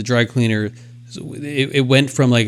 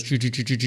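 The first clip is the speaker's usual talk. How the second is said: machine noise; 7 dB quieter than usual. Retold or imitated. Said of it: "the machine ... it goes".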